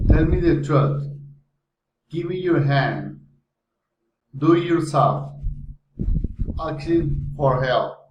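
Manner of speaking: commands dropping on "truth", "hand", "yourself"; falling intonation. Shown as a demonstration. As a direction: let "Give me your hand" fall away at the end. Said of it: "Comments, falling intonation".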